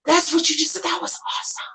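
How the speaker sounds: high, breathy thrill; giddy with delight; excited. Real, not acted. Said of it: "Sorry, I got very excited".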